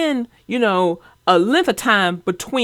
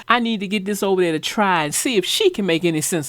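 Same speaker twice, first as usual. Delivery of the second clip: eager retelling; 3 semitones lower, faster than usual. Retold or imitated. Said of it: "I said to myself immediately".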